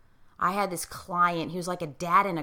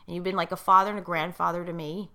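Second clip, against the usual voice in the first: emotional; 4 dB quieter than usual. Real, not acted. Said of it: "and I get emotional".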